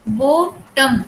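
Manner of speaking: बॉटम in two beats, बॉ, then टम; split into two syllables. Shown as a demonstration. Teacher showing the second syllable, बॉटम broken in two with a reduced vowel. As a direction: separate बॉटम with a short break before the final टम. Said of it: "इसमें vowel को pronounce नहीं किया गया ना".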